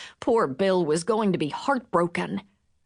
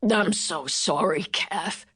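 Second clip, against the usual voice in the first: rasped; 2 semitones lower, slower than usual. Acted. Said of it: "he rasped".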